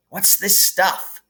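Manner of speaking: lightly voiced baffled boy; a hint of a dazed boy; puzzled Ron. A narrator's reading. Ron's first words.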